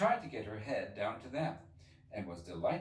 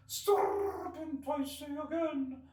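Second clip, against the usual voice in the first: very high bird voice, slowed; subdued pigeon; 5 dB louder, much slower than usual. Acted. Pigeon repeating its accusation, subdued. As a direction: insist again, a bit calmer. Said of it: "in a more subdued tone".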